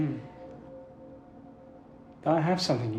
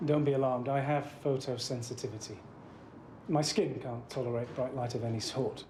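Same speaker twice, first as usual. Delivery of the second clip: whispering; 7 semitones higher than usual. Acted. Dark room, quiet confession.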